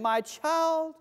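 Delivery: father calming his resentful son, tender. Retold or imitated. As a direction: gently reassure your son. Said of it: "And he said to him".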